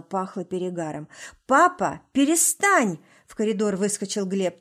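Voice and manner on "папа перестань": high, loud desperate cry; boy shouting at his drunk father to stop. A narrator's reading. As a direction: yell at him to stop. Son defends mother from father.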